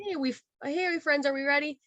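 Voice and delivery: high, perky greeting to guests; light, high-pitched "ready to go" cheer; upbeat check-in. Retold or imitated. Worker coming back to guests, perky and eager.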